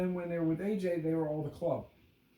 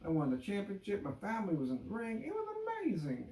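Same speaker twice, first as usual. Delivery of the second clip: excited; 4 semitones higher, 3 dB quieter than usual. Retold or imitated. Mocking Kofi's happy speech.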